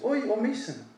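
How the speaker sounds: a fond imitation of his grandma catching on; imitating Grandma. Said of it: "And she goes".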